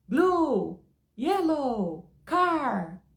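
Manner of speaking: imitating a small nephew. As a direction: chant the words like a little kid. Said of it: "igual o sobrinho daquela louca". (imitando o sobrinho pequeno, mais agudo e alto)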